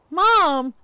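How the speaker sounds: high, loud scolding Mom; daughter's loud shocked Mom; embarrassed protest. Retold or imitated. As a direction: call her out, mortified.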